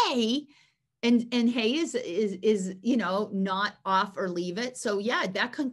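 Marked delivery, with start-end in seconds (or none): 0.1-0.5 higher hey to a dog; short attention-getting call, lightly demonstrated; mild demonstrated interruption. Shown as a demonstration. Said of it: "I walk in the room and I go".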